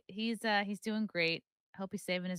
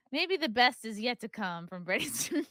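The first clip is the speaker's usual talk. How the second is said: sarcastic well-wishing breaking into a laugh; faux-hopeful, barely holding back a laugh; veiled dig dressed up as optimism; passive-aggressive; 2 semitones higher than usual. Real, not acted. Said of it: "you passive aggressive bitch".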